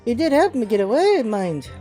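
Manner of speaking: put-on Cockney street girl voice; a rough London urchin lass; man doing a woman's voice. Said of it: "The hell is that voice?".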